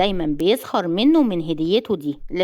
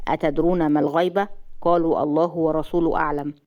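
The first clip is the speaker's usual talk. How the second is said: lightly voiced man, lower and level; husband gently admonishing; 3 semitones lower than usual. Jasser quoting a hadith against backbiting, low and measured. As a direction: advise her soberly in a lower voice.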